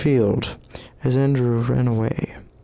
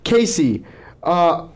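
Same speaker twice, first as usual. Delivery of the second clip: raised rapid-fire name callout; auctioneer voice; 4 semitones higher than usual. Acted. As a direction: rattle off names like an auction. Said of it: "Brendan's gonna put on his auctioneer voice".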